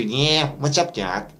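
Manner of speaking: lightly voiced forward cartoon rabbit; a hint of the cartoon rabbit; forward, pharyngeal rabbit voice; Bugs Bunny. Shown as a demonstration. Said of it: "if we take Bugs Bunny".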